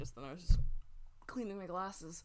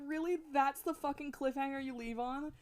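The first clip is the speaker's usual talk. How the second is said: raised-pitch retold indignation, breaking into laughs; upset disbelief; 5 semitones higher than usual. Gamer recalling anger at a cliffhanger, indignant and amused. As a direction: protest in disbelief, drawing out the final words. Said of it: "made me so upset".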